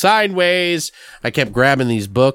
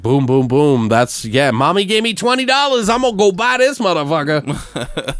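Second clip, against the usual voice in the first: put-on excited kid; 5 semitones higher than usual. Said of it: "I'd be like".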